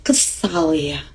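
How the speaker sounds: put-on soft, low calming voice to the child; demonstrating a low, soft calming voice; low soothing tone. Shown as a demonstration. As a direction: settle the upset child gently and low. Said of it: "Pakai nada rendah".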